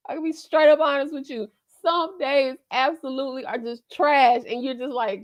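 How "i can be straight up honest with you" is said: laughing. Real, not acted. Laughs then confides.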